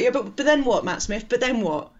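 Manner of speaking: pestering mock protest; mock exasperation. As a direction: badger the film, half joking. Arguing with the film.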